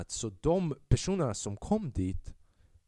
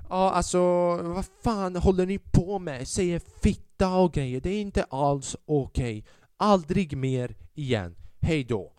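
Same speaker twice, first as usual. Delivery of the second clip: angry booker; 7 semitones higher, 6 dB louder, slower than usual. Retold or imitated. Angry booker's text message.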